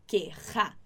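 "Querrá" with the rr sounded in the throat; low-pitched model "Querrá" with a guttural rr; throaty R. Shown as a demonstration. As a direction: demonstrate the throaty double R in "Querrá". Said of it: "esse som aqui da sua garganta".

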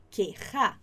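"Querrá" with a strong, throaty double R; teacher's clear model of "Querrá", RR made in the throat; double-R pronunciation. Shown as a demonstration. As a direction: make the rr in "Querrá" rasp from the throat. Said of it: "com dois R's mesmo".

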